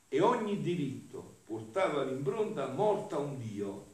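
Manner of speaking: emphatic, solemn reading from a sacred text; declaimed devotional reading. Acted. Preacher reads Jesus' lament to the faithful, emphatic declamation. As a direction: declaim it phrase by phrase.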